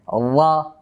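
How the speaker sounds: "আল্লাহ" said as a heavy "ra"; full, heavy r. Shown as a demonstration. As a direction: raise the tongue root and say "আল্লাহ" as a full "ra". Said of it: "এটা পুর হলো কেমনে". ("আল্লাহ"-কে পুর "রা" বলে)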